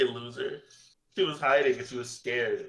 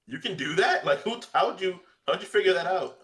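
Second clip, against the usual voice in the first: high, excited disbelief; play-acted amazement; 7 semitones higher, 4 dB louder than usual. Asking a wave dasher how they learned it, amazed. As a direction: pitch it up like a stunned onlooker. Acts amazed onlooker of real-life wave dashing.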